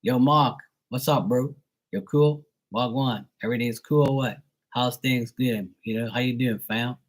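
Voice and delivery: Bermudian slang greeting, R dropped; Bermudian accent. Shown as a demonstration. Local greeting his friend, Bermudian accent. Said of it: "They say Mark".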